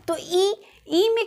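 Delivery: ई drawn out as a long close ee; vowel demo ई. Shown as a demonstration. Teacher models ई for students, clearly drawn out. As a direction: sound out ई slowly and clearly. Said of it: "अगर हम ई को बोले".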